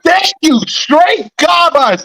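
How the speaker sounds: high, slow wail of disgust; exasperated cry. Real, not acted. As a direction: cry it out, fed up. Exasperated rant about play calling.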